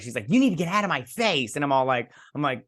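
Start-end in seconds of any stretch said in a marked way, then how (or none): 0.3-1.6 higher-pitched irritated retold demand; corrected confrontational quote. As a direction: snap it as an acted warning. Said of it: "she doesn't say it like that".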